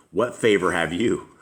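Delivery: reading the verse through a laugh. Real, not acted. Leader reading scripture to the group, laughing through it. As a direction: barely hold it together through the line. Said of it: "I'm sorry, I'm laughing here".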